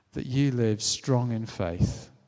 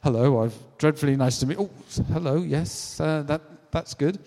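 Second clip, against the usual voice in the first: awkward British hello, pitched up; flustered, halting, higher-pitched small talk; embarrassed politeness; 4 semitones higher than usual. Acted. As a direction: stammer polite greetings to unwanted huggers. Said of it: "I'm British, I'm really embarrassed".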